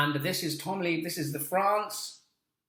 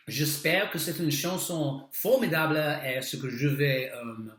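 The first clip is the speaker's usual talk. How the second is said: bad French. Real, not acted. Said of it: "Okay, that's bad French".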